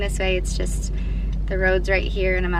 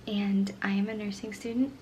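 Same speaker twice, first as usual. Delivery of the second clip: whispering; 5 dB quieter than usual. Real, not acted. Whispering, family asleep.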